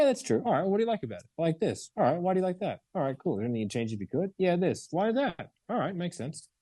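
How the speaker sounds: light, breezy back-and-forth; unbothered curious chat; nonchalant questioning. Shown as a demonstration. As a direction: casually bounce questions. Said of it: "I don't give a fuck".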